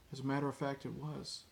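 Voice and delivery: softly, calmly, matter-of-fact; calm quiet quote. Retold or imitated. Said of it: "so calm and collective".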